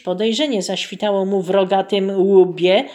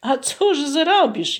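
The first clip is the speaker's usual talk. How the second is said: holding back tears; 7 semitones higher, slower than usual. Acted. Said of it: "jęknął chłop, gwałtem płacz powstrzymując".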